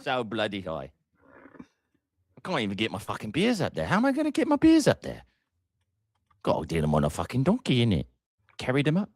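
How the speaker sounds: hammed-up Cockney, swooping up high on the complaint; Cockney accent. Shown as a demonstration. Host joking about getting beers up there, hammed-up Cockney. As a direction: grumble like a cartoon Cockney, pitch leaping about. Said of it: "I could do an Cockney one".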